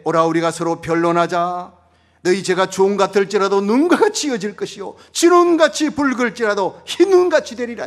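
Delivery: loud, high, fervent pulpit delivery; full-throated revival preacher; preaching at full force. Acted. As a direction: proclaim it to the whole congregation.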